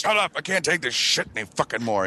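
high-pitched start, dropping toward the end; mock fed-up outburst. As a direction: act out reaching breaking point. Acts out being fed up.

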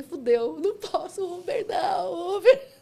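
high, drawn-out tearful wail; hammed-up crying plea; mock despair. Driver begs Uber after her account is blocked, desperate. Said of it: "Aí o desespero bateu".

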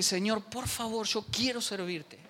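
soft, slow prayer; quiet plea. Retold or imitated. Student praying to God in despair, soft and slow. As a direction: pray it softly, slowly.

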